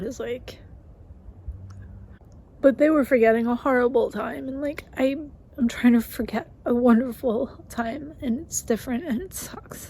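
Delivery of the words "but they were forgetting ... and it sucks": blubbering. Real, not acted. Crying about forgetting good times.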